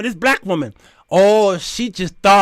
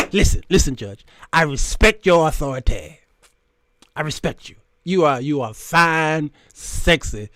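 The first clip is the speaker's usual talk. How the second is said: lightly imitated camp defendant; camp flirting; 3 semitones lower than usual. Defendant sweet-talking the judge, lightly camp and flirtatious. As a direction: flirt with mock respect, sinking lower at the end. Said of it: "he did the gay thing".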